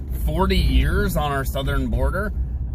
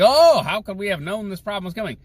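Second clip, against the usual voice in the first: mock surprise; 5 semitones higher, faster than usual. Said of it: "Like, this, like".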